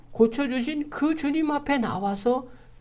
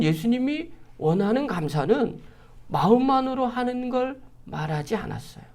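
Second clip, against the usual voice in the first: usual speaking voice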